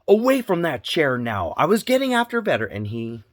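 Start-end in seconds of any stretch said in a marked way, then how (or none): 0.1-1.5 put-on sharp yell at the boy, much higher and louder; raised voice. Dad re-enacts yelling at his son to leave the chair, loud and high. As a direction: snap the name out like a scolding dad. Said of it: "I raised my voice".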